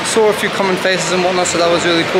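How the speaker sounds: slightly slurred speech around retainers; talking with retainers in. Real, not acted. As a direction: speak with a retainer in your mouth. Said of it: "If I speak a bit weirdly, it's 'cause I got my retainers in".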